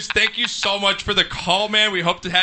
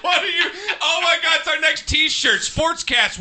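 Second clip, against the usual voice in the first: excited shout; 9 semitones higher, slower than usual. Real, not acted. Shouting in delight, laughing.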